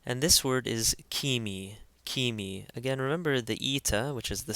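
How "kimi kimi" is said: "kimi" as KEE-mee with a hard K; hard K, long E. Shown as a demonstration. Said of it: "K takes a k sound".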